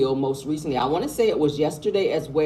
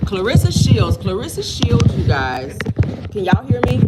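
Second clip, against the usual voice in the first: raised voice over gym noise; loud over noise; 5 semitones higher, 8 dB louder than usual. Real, not acted.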